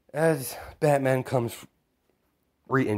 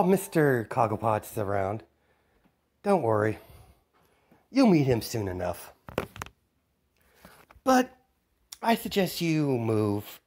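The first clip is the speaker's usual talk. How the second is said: put-on taunting kid villain. Kid villain taunting Batman over the TV, smug. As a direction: toy with Batman, smug and playful.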